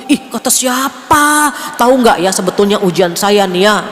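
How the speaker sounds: loud, offended comeback; a touch of huffy complaining; indignant retort. Retold or imitated. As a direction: bristle and protest at the compliment. The wrong reply, complaining.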